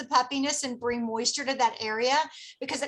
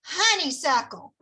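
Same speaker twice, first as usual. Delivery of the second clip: honeysuckle with a light Southern twang; Southern accent. Shown as a demonstration. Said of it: "say this with a Southern accent".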